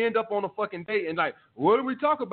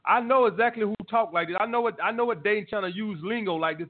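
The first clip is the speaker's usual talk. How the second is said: ordinary talk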